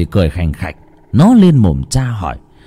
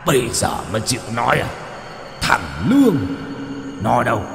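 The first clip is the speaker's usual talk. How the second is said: softer, fast, sneering demon hiss; 2 semitones higher, 6 dB quieter, faster than usual. A narrator's reading. Demon mocking the father for calling out, soft sneering voice. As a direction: sneer at the beaten man like a monster. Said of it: "nó rít lên".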